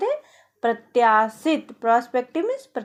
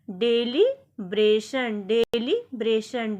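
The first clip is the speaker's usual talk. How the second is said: slow, drawn out; 3 semitones lower, slower than usual. Shown as a demonstration. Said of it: "deliberation को हिंदी में कहते हैं".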